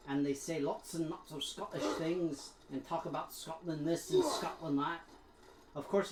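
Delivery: Scottish brogue influenced by Mimir; attempted Scottish accent. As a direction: chat along in a put-on Scottish accent. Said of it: "too much influenced by Mimir".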